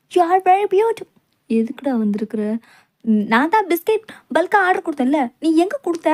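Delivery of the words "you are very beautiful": very slow, high, loud swooning line; slow swooning compliment; lovestruck. Acted. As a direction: stretch every word like a lovesick fool.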